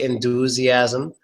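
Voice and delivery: "enthusiasm" said as en-DOO-ziasm; missing TH. Shown as a demonstration. Teacher shows the likely mistake, enthusiasm without TH. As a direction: say "enthusiasm" with a D-like sound for the TH. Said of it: "Otherwise, you'll probably say".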